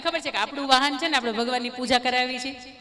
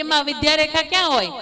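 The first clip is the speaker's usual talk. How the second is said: put-on a child's eager question, a bit louder and higher; curious child; 4 semitones higher, 5 dB louder than usual. A narrator's reading. Five-year-old boy asking his mother, lightly voiced child. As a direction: ask like a small boy full of wonder.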